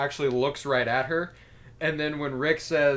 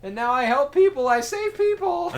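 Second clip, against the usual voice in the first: Mister Octopus voice; 9 semitones higher, 6 dB louder than usual. Retold or imitated. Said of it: "He's like".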